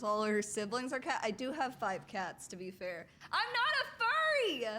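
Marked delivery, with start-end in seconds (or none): 3.3-4.7 loud protest. Real, not acted. Protesting loudly to chat.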